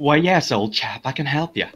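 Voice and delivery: put-on British old-chap accent. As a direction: play a British chap obligingly. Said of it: "I'm gonna give everyone British accents".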